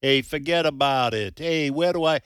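light mock New York-New Jersey accent. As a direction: play at a New Jersey street-guy accent. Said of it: "New York and New Jersey accent".

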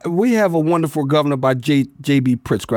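understated, deadpan sarcastic praise; dry sarcasm. Real, not acted. Pastor on his state's governor, dryly sarcastic. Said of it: "I hear no sarcasm dripping".

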